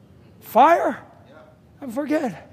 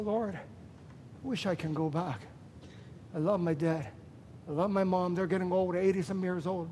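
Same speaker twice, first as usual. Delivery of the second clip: tearful prayer; 4 semitones lower, 6 dB quieter than usual. Retold or imitated. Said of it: "And I cried".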